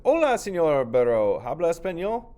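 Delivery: put-on high, loud child voice calling out; Nieto's eager greeting. Child Nieto greeting the donkey, loud and high. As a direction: call out brightly to the donkey.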